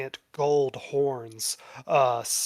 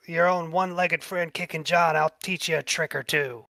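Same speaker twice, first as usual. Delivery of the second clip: Kickin' John excited; 3 semitones higher, 3 dB louder than usual. Acted. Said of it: "He goes".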